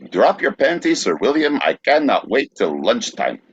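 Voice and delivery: hammed-up plea, starting high; theatrical quote. Repeating the Cockney phrase for the guesser, theatrical reading.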